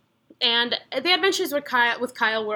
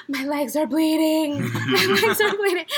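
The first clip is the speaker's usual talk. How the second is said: high, slow, laughing wail; mock crying; 4 semitones higher, 3 dB louder, slower than usual. Friend with scratched legs wails about bleeding, mock sob. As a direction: imitate the sobbing friend, half laughing. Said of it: "And so she's crying".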